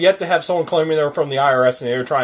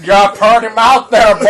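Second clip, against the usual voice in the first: higher, louder leering hillbilly line; 6 semitones higher, 6 dB louder than usual. Pretend. Playing the hillbilly villain to a scam caller, high loud leer. Quoting a movie line mockingly.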